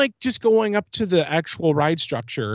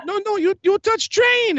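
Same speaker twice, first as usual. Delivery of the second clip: imitating the lady. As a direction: mimic the woman stopping him at the booth. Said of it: "This is how she sounded".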